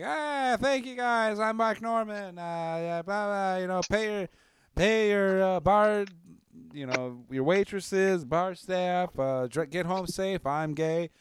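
high, chirpy comedian sign-off voice; imitating Mark Norman. Retelling a comic's closing bit, high and chirpy. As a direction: do a cheery high stand-up closer. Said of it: "he's like".

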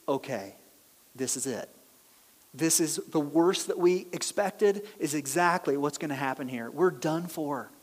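hushed, low doomed murmur; dread. Retold or imitated. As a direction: sink into quiet dread, sure it's over. Brothers dreading their doom.

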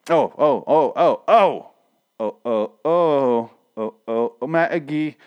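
mock sex moans, climbing in pitch; teasing pretend moans of pleasure; mock moaning. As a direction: act out rising "oh, oh" moans. Mock moans, acting out the sex scene.

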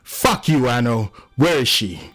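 high, heated snap at a friend; angry outburst. Acted. John demands to know where she is, angry. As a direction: lash out and demand an answer. John rages at Anno in quarrel.

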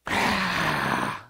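long exhale of cigarette smoke; heavy mimed smoker's sigh; imitated smoky exhale. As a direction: blow out a long drag. Imitating the woman's cigarette drag.

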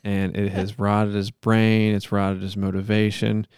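measured, solemn monotone plea; earnest-sounding improvised prayer; mock prayer. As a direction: pray aloud with halting mock sincerity.

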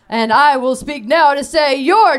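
high, slow winner reveal; excited announcement. Real, not acted. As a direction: crown the champion with a shout.

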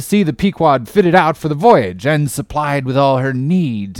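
put-on an old salt sizing up a greenhorn, loud and gruff; gruff old sea captain. Old captain interrogating a would-be sailor, loud and gruff.

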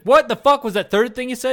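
high, loud incredulous demand; stunned friend cutting in; acted disbelief. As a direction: demand it back, hammed-up alarm.

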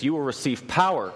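power hit hard and falling; stress on power. Real, not acted. Preacher stressing power to the church. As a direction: lean on power as the promise. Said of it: "'cause I emphasized the word".

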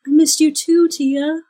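lifted pitch, mildly surprised to see a friend; reunited friend. Acted. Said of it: "and she's like".

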